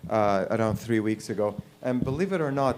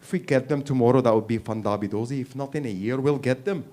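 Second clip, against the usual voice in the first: a hint of a Scotland Yard officer's British accent. Scotland Yard officer planning the manhunt, British accent. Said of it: "Scotland Yard sitting there going".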